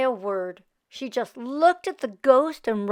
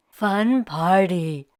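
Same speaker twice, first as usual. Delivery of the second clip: mummy voice; 5 semitones lower, slower than usual. Acted. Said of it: "said the mummy".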